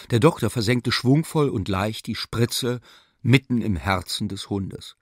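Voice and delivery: usual speaking voice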